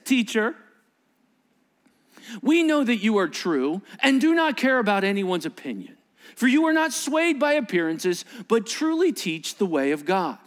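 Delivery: overly sweet, mocking praise; sarcastic flattery. Pharisees buttering up Jesus before the trap, sarcastic. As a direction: read it so the flattery sounds fake. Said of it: "that sounded sarcastic the way you read that".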